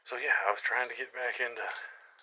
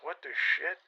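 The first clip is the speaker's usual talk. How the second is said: baffled outburst; 9 semitones higher, 4 dB louder, slower than usual. Retold or imitated. Gunman baffled by the question.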